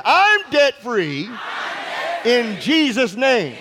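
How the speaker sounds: drawn-out, shouted I'm debt free; slow shouted declaration. Shown as a demonstration. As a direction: proclaim it slowly with full force. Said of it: "Let's try that again".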